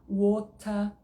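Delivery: WATER with a crisp T and no final R; British WATER, T fully sounded, ending in A. Shown as a demonstration. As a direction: hit the T in WATER, drop the R. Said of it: "você pode pronunciar".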